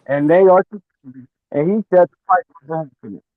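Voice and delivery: muffled, like through glass; muffled phone line. Real, not acted. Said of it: "he talking through a glass of milk".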